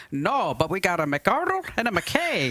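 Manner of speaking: put-on light Scottish accent on the punchline; the cottage woman answers in a Scottish accent. Joke teller voices the woman in a light Scottish accent. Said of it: "That's a good Scottish accent".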